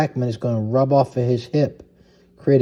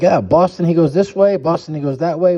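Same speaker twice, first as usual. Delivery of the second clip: mock confused defender; 6 semitones higher, 5 dB louder than usual. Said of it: "they're gonna be like".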